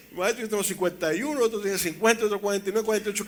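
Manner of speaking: high, loud, quick counting of ages; amused protest. Retold or imitated. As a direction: rattle off the ages in mock exasperation. Listing brothers' ages to mother.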